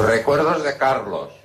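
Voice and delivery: slow, arching singsong delivery; insistent acted greeting. Friend passing on Carlos's regards, drawn-out insistence. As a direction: stretch it out, rising then falling. Same greeting repeated again.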